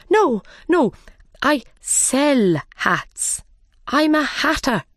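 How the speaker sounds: high, mildly alarmed denial; frightened protest. A narrator's reading. Mad Hatter defending himself to the King, frightened. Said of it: "He looked very afraid".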